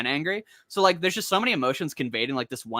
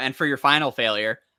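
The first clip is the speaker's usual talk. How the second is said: plain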